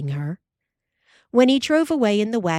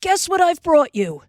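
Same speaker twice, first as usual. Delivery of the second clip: much higher, louder eager tease; excited tease; 11 semitones higher, 4 dB louder than usual. Acted. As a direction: dangle the surprise. Pa teasing with a surprise.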